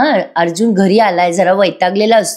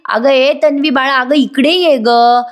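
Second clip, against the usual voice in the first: higher drawn-out call, slow at the end; deliberate calling out; 5 semitones higher, slower than usual. Retold or imitated. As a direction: call her on purpose, stretching out ये. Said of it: "Purnaji मुद्दाम मोठ्याने ओरडतात".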